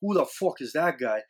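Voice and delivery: badly faked Irish accent; retry a shaky Irish accent; attempted Irish accent. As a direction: quote in a poor Irish accent. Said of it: "At least I got Irish hat on".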